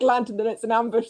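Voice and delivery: mildly excited retelling of an idea; retold excitement. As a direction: replay a little burst of eagerness. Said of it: "I got excited by the idea of a lantern".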